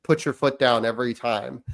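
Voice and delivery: a calm, firm talk after losing his temper; calmer tone. Retold or imitated. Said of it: "say it now in a different tone".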